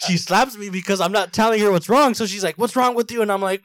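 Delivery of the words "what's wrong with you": high-pitched retold angry demand; pissed mom. Mom to her crying son who can't answer, exasperated. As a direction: imitate a mother snapping, pitched well up. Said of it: "she gets fucking pissed".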